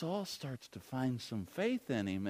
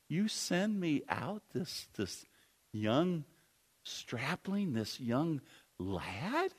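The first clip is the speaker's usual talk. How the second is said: halting, drawn-out incredulous question; disbelief; 3 semitones higher, much slower than usual. Acted. Goliath seeing young David, drawn-out disbelief. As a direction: stretch it out in mock disbelief. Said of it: "he can't believe it".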